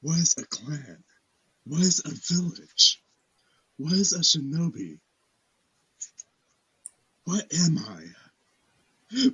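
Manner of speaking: brooding anime hero monologue; slow, dramatic anime questioning. Acted. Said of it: "you have to do the anime voice".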